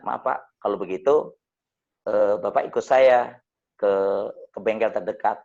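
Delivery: low, even voice with no anger; calm, not angry. Retold or imitated. Driver asking the man who hit him to come to the garage, calmly. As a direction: hold back the anger, stay polite. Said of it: "Tapi nadanya bukan nada marah".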